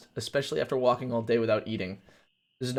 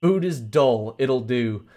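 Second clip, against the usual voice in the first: loud, gruff little gnome croak; gnome creature; 7 dB louder, slower than usual. Acted. Gnome judging the offered food, gruff croak. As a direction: croak it out, unimpressed.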